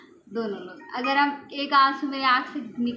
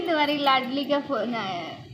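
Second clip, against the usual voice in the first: grandma repeating mockingly; 3 semitones higher, 5 dB louder than usual. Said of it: "ऐसे ही कहती है".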